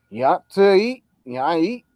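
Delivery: lazy slurred redneck drawl; redneck accent. Retold or imitated. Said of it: "they don't say a lot of letters in there".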